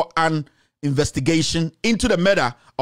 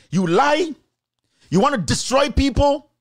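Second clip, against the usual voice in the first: angry accusation; 7 semitones higher than usual. Real, not acted. Scolding the politician directly.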